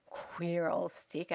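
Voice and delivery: soft, slow aside; Albert confiding to Edwin, murmured aside. A narrator's reading. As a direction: mutter it under your breath. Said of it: "Albert murmured".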